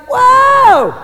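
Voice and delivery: high shouted whoa of wonder; loud, high cry of awe; amazed whoa. Pretend. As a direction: belt out a stunned whoa. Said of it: "You're gonna be like".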